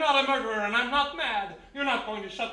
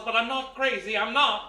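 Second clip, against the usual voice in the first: desperate insisting; 5 dB louder than usual. Acted. Frantic man insists he is sane.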